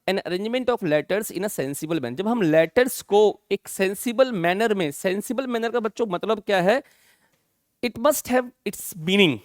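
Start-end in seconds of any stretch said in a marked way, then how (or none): 0.1-2.1 1 slow dictation. Shown as a demonstration. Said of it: "हमने भी क्या लिखा?". 7.8-9.4 slow, word by word for copying; spaced-out teacher dictation. Shown as a demonstration.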